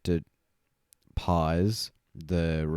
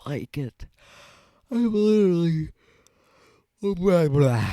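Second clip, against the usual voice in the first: high silly voice; 11 semitones higher, 5 dB louder than usual. Pretend.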